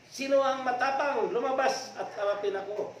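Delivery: high yelled dare at the neighbours. Acted. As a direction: shout it even harder. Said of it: "Lalong nagsusumigaw".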